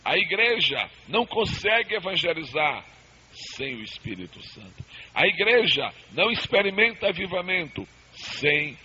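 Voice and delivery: rhythmic preaching cadence, rising then dropping. Acted. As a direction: preach it in a call and fall.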